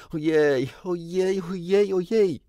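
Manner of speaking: high, loud exasperated wail; exclaimed. A narrator's reading. Wendy overwhelmed by the children's tattling, crying out. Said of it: "zawołała Wendy".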